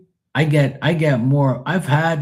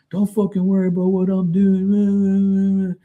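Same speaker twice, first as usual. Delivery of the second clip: retold angry driver; 9 semitones higher, slower than usual. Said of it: "And he goes".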